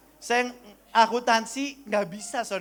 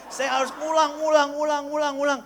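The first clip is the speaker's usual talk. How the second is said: frustrated repetition; 4 semitones higher, 3 dB louder than usual. Real, not acted. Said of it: "repeats ngulang in frustration".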